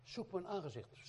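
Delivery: "Zoek mijn aangezicht" lifted high, as if heard out of nowhere; sudden call. Shown as a demonstration. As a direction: let "Zoek mijn aangezicht" come as a sudden inner summons. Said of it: "Plotseling, in één keer, zo".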